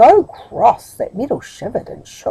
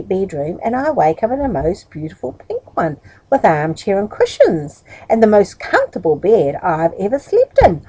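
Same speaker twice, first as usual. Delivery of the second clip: marvelling. Acted. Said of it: "marvelled to see it".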